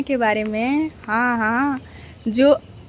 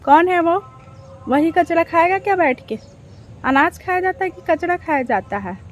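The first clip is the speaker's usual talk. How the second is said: higher-pitched indignant questioning; 4 semitones higher than usual. Real, not acted. Challenging whoever called the mustard crop rubbish, indignant.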